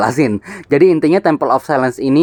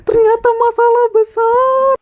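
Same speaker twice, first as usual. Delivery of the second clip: gasp, then high surprised realization; gasp of surprise. Real, not acted. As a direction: caught off guard, it's big trouble. Realizes the quest is serious.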